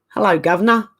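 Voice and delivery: weak attempt at an English accent; English accent that doesn't come off; failed English accent. Shown as a demonstration. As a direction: have a clumsy go at an English accent. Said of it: "I can't say it in an English accent. It doesn't come out right".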